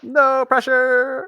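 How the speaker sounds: slow, high, drawn-out tease; sarcastic. Pretend. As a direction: stretch it out mockingly. Teasing before a risky check.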